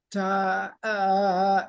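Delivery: "ta" breaking off into a wobbly "uh"; faltering voice demo. Shown as a demonstration. Coach demonstrating vocal cords wanting to close, faltering. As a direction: let the held tone give out. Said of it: "If the voice wants to go".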